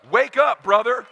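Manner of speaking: loud call, up in pitch; shouting wake up. Real, not acted. Speaker yells at the listener to wake up. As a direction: jolt them awake.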